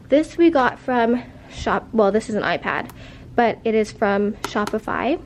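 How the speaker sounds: breathless, winded between phrases; out of breath. Real, not acted. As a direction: talk while still catching your breath. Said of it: "Sorry, I'm so out of breath".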